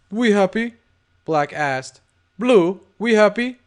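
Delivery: a lightly voiced smooth gangster; tough guy voice. Black voiced in dialogue.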